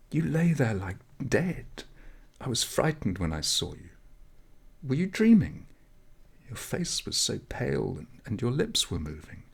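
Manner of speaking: put-on a high, urgent young girl's voice; eager village girl urging him up; young girl waking him. Girl describes his pale face.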